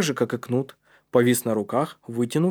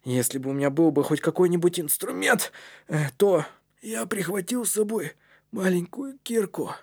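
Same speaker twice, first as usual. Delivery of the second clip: weak Knut; 6 semitones higher than usual. A narrator's reading. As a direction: haltingly offer it in a small, raised voice. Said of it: "произнёс Кнут".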